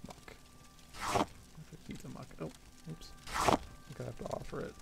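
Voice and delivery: muffled, talking into hand; hand over mouth. Real, not acted. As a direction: speak into your palm. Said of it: "I was talking into my hand".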